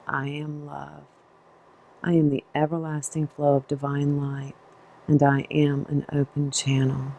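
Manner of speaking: measured affirmation, pausing between phrases; spoken mantra. Real, not acted. Guide saying a mantra for listeners out loud, calm measured recitation. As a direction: recite it calmly as a personal mantra. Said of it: "use my mantra for you out loud".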